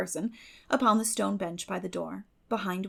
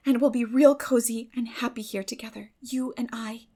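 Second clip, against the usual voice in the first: lightly voiced eager girl, higher; bright hopeful plea to Marilla, slightly higher; Anne's voice; 6 semitones higher, 8 dB louder than usual. A narrator's reading. Anne pleads her plan.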